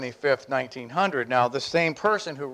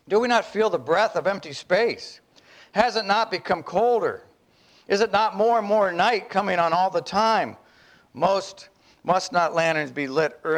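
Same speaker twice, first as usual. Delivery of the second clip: raised, searching questions of a lost madman; madman's questions; 3 semitones higher than usual. Acted. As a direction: ask into the dark, growing dread. Long reading of madman's questions.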